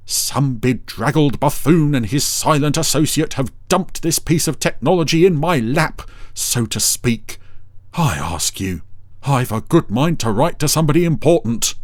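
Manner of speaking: pompous high indignant rant; Dougal voice. A narrator's reading. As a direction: fuss and fume grandly.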